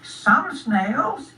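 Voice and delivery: high-pitched little snail voice; small high snail question; inquiring snail. Acted. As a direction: ask as a tiny, polite snail. Snail number three corrects Spot.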